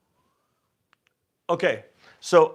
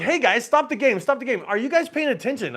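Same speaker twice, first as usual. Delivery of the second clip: raised, rude call to stop the game; 8 semitones higher than usual. Retold or imitated. Player telling dealers to stop the game, rudely. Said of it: "I was kinda rude about it".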